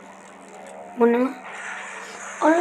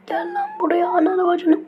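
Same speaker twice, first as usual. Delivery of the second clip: angry yell; 6 semitones higher than usual. Real, not acted. Angry yelling at game enemy.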